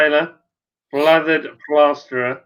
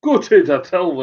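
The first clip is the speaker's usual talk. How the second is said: joking Yorkshire dialect imitation; lightly hammed-up Yorkshire accent; 3 semitones higher than usual. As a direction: play along in broad Yorkshire. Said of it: "he's from Yorkshire".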